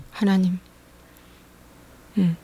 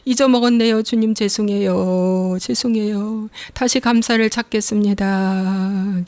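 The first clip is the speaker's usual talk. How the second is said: sorry prayer. Retold or imitated. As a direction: plead gently and slowly. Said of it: "이렇게 기도하는 거예요".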